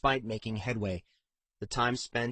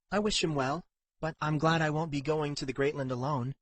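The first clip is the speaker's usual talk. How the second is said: lightly voiced heroine, higher pitch; a hint of relief in a higher character voice; sincere Katrin character; 5 semitones higher than usual. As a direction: confide sincerely, voice slightly lifted.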